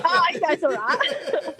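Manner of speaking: laughing through a slow, teasing line. Real, not acted. Joking about cuddling David on the show, laughing. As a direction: let the giggle spill into it, drawn out.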